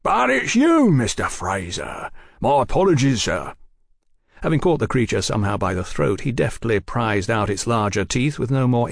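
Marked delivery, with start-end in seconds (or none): 0.0-3.5 startled then apologetic. Acted.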